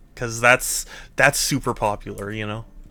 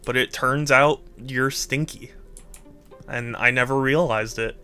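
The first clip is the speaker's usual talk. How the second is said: mock betrayal; 4 dB quieter than usual.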